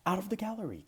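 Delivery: loud high call from inside the gallery. Acted. A voice in the gallery shouting after the runaway paintings, loud. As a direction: yell them out of the room. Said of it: "called out a voice".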